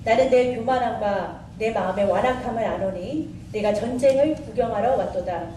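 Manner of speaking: measured Bible reading aloud; scripture reading. Acted. Teacher reads the Bible to the congregation, scripture reading. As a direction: read the passage out formally.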